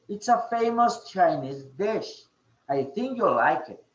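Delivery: lively demonstrated intonation, falling on "like it"; expressive intonation. Shown as a demonstration. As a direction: model the recommendation with lifted "famous". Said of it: "certain emotions on what you're speaking".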